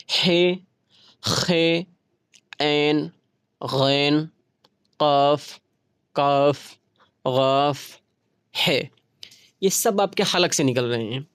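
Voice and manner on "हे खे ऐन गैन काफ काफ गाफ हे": हे, खे, ऐन spaced and clearly sounded from the throat; each letter alone, pause after every one; say along, throat letters. Shown as a demonstration. Teacher asking students to speak with her, paced letter drill. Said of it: "बोलिए".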